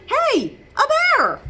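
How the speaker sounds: high and loud excited cry; Captain Cook crying out. Acted. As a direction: shout it out like you spotted a bear. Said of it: "and cried".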